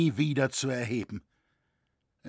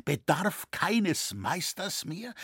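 slow, whispered disbelief turning to anguish; aghast, barely getting it out; pained cry; 6 semitones higher, slower than usual. A narrator's reading. Roritzer hearing the cathedral work is halted, pained disbelief. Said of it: "rief Roritzer schmerzlich".

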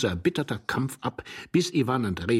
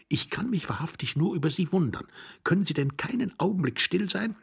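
lightly voiced higher, hushed reproach; irritated young man; 9 semitones higher than usual. A narrator's reading. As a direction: scold your hiding companion in a higher voice. Young man scolds under bed.

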